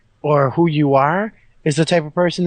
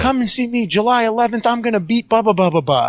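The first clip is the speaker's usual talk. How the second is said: hyped ring announcer, pitched up; wrestling promo voice; 8 semitones higher, faster than usual. Retold or imitated. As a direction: hype it like a promo.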